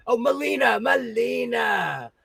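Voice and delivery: stretched correction. Real, not acted. Correcting a viewer's name.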